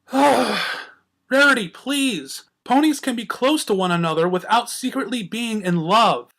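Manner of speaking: very slow drawn-out plea; weary plea. A narrator's reading. Twilight pleading with Rarity, slow and weary. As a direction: sigh her name out wearily.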